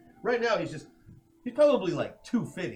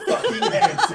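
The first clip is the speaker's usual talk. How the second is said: loud laughing shout; 11 dB louder than usual. Acted. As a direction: bellow the name, cracking up. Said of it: "To which he says".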